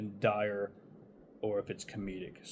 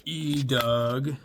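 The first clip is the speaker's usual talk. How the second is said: calling the name up the stairs, loud and raised; 4 semitones higher, 7 dB louder than usual. Retold or imitated. Calling roommate upstairs, raised loud call. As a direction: shout the name upward to get his attention.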